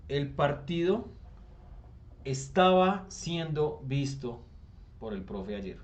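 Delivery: each word drawn out slowly; slow, deliberate example. Shown as a demonstration. Teacher to class modeling the passive sentence, slow and deliberate. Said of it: "qué tengo que decir en voz pasiva".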